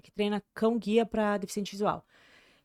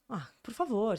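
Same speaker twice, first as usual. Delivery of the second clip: usual speaking voice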